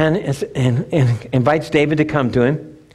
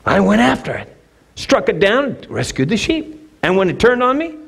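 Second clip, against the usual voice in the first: put-on confident boy; 3 semitones higher than usual. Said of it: "he goes".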